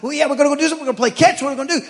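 high, loud playful hype; excited playful. Retold or imitated. Pastor hyping up his dog to play catch, high and loud. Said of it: "I'm like".

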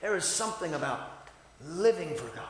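preacher drops to a hush for the church; quiet reflective. Real, not acted. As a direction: pull it way down after the shout. Soft after the shout.

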